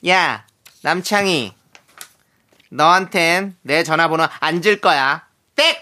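slow, crisp news anchor voice; lightly voiced parody news anchor; Hwang Jung-min announcer impression. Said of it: "황정민 아나운서 성대모사를".

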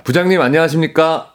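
lightly acted big-voiced greeting to the boss; a touch of a formal, hearty employee. Listener's story greeting the department head, mock-hearty. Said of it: "이렇게 큰 소리로 인사를 했더니".

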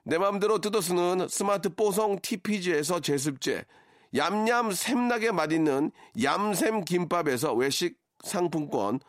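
brisk ad read of prize list; sponsor list read. Acted. (라디오 협찬 광고 낭독)

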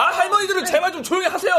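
fast, loud, laughing plea; exasperated laughing plea. Real, not acted. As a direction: beg them to hush through a laugh. Director hushing noisy grannies.

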